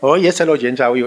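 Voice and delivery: lightly put-on accent of Mother Teresa's sisters; sisters' borrowed accent, lightly done; imitated sisters' accent. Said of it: "they all sort of talk like this".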